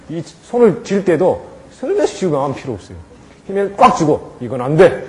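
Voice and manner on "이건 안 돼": firm no. Shown as a demonstration. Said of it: "딱 단호하게 해야 될".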